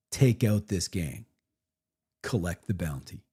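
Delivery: game master scene setting. Shown as a demonstration. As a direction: read it out like a GM opening the adventure. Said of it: "So you just say".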